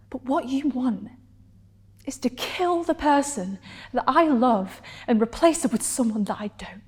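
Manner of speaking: intimate confession building to hurt defiance, with long pauses; measured, emotional monologue delivery; dramatic monologue. Acted. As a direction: act it as a heartfelt stage confession, pausing between thoughts. Performs a scripted monologue.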